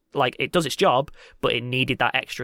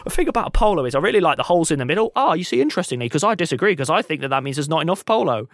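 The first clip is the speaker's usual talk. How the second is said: bad Cockney accents; 3 semitones higher, 3 dB louder, faster than usual. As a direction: imitate earnest Cockneys arguing over trivia. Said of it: "with bad Cockney accents going".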